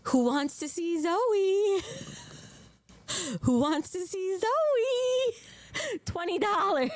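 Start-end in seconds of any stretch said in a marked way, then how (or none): 0.0-1.8 drawn-out coaxing call, rising on Zoe; slow sing-song teasing offer. Real, not acted. 3.4-6.0 very drawn-out, high-pitched coaxing; big slow sing-song tease; exaggerated teasing call. Real, not acted. Repeats the call, more exaggerated.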